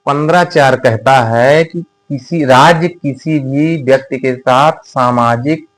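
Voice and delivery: slow, measured reading of the article text; deliberate dictation pace. Shown as a demonstration. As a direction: read it out slowly so students can write. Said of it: "reads the article slowly".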